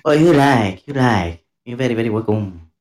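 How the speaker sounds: mock Chinese accent. Imitating the server's accent.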